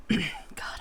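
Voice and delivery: breathy unvoiced aside before trying the voice; whispered aside. Real, not acted. Gm whispering to the table before a voice. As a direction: mutter it under the breath. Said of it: "God, unvoiced whisper".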